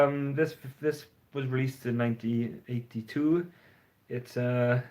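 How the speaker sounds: imitating his old hesitant self, full of ums; mock unconfident self. Vlogger mimics his first nervous review videos, halting and hesitant. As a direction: stumble through it like a nervous beginner. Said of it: "that kind of unconfident speaking".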